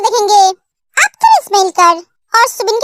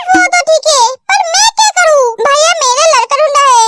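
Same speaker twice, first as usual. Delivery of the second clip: whimpering cry; 3 semitones higher than usual. Acted. Girl upset about marriage.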